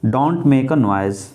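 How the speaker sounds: very slow, word by word; slow dictation. Shown as a demonstration. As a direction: dictate the sentence slowly. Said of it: "ऐसे ही बोल के".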